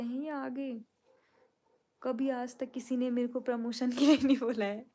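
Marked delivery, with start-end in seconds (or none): 2.0-4.9 playful grievance, pushed up loud; mock-indignant rant. Real, not acted. Vlogger jokingly complaining to her viewers, mock-indignant and loud.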